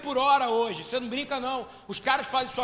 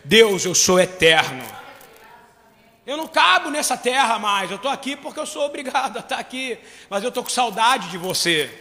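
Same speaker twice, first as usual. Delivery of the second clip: loud prayer; 7 dB louder than usual. Acted. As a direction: call up to heaven, loud and pleading. Prayer quoted to God.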